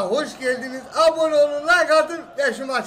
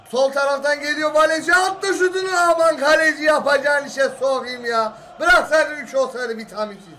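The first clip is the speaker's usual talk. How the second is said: turkish football commentator; 2 semitones higher than usual. Acted. Commentary resumes on a goal.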